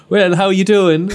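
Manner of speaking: high, loud put-on Irish greeting; hammed-up Irish accent, close to laughing; mock Irish accent. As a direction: exaggerate an Irish accent for the joke. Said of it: "French people don't come to Ireland and are like".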